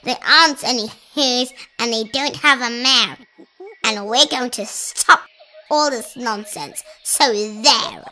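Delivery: loud, scornful bully; shouting. A narrator's reading. Monkey brothers scoffing at the elephant, scornful shouting. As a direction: shout them down with contempt. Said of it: "came shouting".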